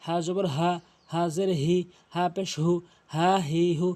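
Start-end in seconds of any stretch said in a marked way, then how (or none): 3.2-3.9 "হা হি হু" with easy breath from the start of the throat; normal throat h. Shown as a demonstration. Teacher drilling learners, "হা হি হু" with relaxed h. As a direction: let the h in "হা হি হু" flow unpressed. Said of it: "normally হলকে শুরু থেকে উচ্চারণ করবেন".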